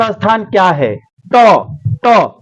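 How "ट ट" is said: ट with the tongue curled back to the palate; teacher models a hard retroflex ट; sounding out a letter. Shown as a demonstration. Teacher sounds out ट so students feel the tongue. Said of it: "देखिए, जीभ जा रहा है अंदर".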